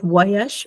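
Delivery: "Voyage" slow, "vwa-yash"; slow French demo. Shown as a demonstration. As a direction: draw "Voyage" out for the class. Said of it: "esta o va a sonar como bu".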